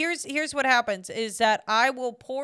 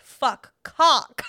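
retold outburst; 7 dB louder than usual. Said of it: "I said".

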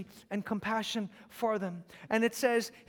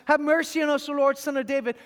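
louder, pleading cry for mercy; 2 semitones higher, 5 dB louder than usual. Acted. Blind men by the road calling to Jesus, pleading cry. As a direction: call out like a blind beggar. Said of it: "cried out".

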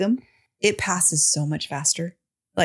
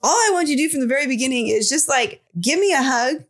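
mild exasperated pleading; 4 semitones higher than usual. Retold or imitated. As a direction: plead with a touch of anger. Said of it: "I'm, like, getting angrier and angrier".

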